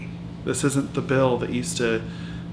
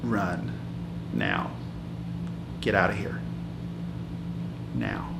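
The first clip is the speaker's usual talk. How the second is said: urgent warning; 5 semitones lower, 7 dB quieter than usual. Retold or imitated. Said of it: "she gripped my arm and she said".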